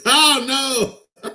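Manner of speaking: laughing "Oh, no" at the bad news. Real, not acted. Streamer laughing at bad news for a viewer. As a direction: break into a real laugh.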